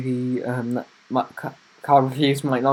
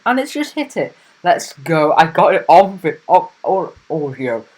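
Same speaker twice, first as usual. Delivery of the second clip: real excitement; 3 semitones higher, 10 dB louder than usual. Real, not acted. YouTuber watching his views hit two hundred, real excitement. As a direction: blurt it out, thrilled, voice jumping up. View count hits milestone live.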